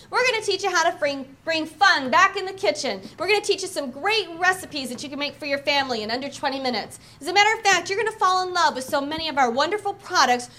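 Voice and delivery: confident hostess pitch; party host welcoming the guests; strong opening talk. Shown as a demonstration. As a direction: sell it warmly to the room. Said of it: "give you an idea of an opening talk".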